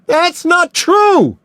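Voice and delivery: high, loud, slow scream on true; anguished screaming; screamed denial. A narrator's reading. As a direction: scream it in his face. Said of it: "screamed Mills".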